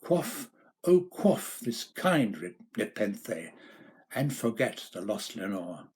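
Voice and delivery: pleading cry that fades toward Lenore; fervent plea dying down; cried out. Acted. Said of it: "I cried".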